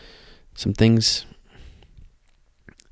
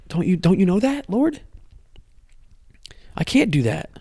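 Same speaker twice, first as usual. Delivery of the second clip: breathy whispered prayer to God; whispered plea; 7 semitones higher than usual. Retold or imitated. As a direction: whisper it like a desperate confession.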